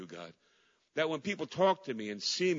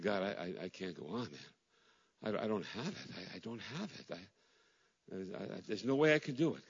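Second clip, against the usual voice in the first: broken prayer; 5 semitones lower, 5 dB quieter than usual. Retold or imitated. Widowed pastor praying in despair.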